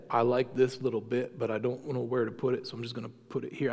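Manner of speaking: put-on a touch of country Southern accent; Southern hillbilly accent. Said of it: "I slipped into a Southern accent".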